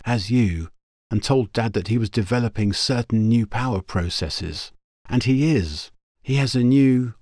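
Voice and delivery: put-on young woman voice. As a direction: voice the girl brightly. Girl character explains.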